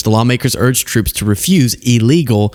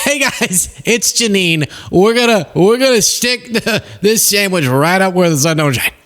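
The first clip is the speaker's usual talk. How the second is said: much higher, breathy-bright caricature of a chirpy host; a gleeful over-the-top parody, hammed up; mocking a prosecutor's frantic video update, squeaky caricature; mock Jeanine Pirro voice; 6 semitones higher than usual. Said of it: "the humiliating part for Trump and for Jeanine Pirro".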